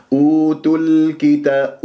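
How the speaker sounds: أوتوا الكتا slowly, l briefly sustained; flowing lām. Shown as a demonstration. Teacher models joining the words, lām briefly sounded. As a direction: let the l flow before the k in أوتوا الكتا. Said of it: "يجري فيها صوت فترة زمنية بسيطة".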